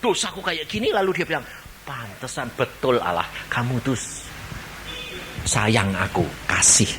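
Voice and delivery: embarrassed sinner. Acted. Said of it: "Pada waktu dia lihat".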